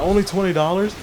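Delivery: a high mock yell from a little brother; bratty little-brother outburst, retold; kid's yell. Little brother yelling at the twenty-dollar trade-in offer. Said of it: "He started yelling".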